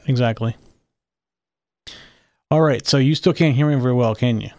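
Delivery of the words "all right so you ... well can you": breaking up over the line; choppy call audio; bad connection. Real, not acted. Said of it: "you're breaking up badly again".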